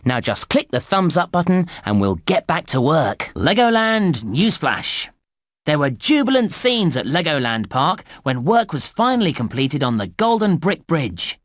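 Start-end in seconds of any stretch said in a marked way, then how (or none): 3.3-11.4 newsflash. Acted. Reads a park newsflash.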